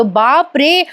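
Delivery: high-pitched, flustered reassurance; retold panic, urging calm while agitated himself; hyper. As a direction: act out a worked-up man, pitch held high. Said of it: "राजा आता खूप hyper होतो".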